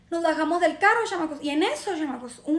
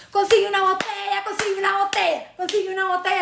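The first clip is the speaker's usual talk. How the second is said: higher, repeated mock holler; retold calling out; 4 semitones higher than usual. Club-goer calling to her friends, mild mock yell. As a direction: call it like a cheer to friends. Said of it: "y le gritábamos a las amigas".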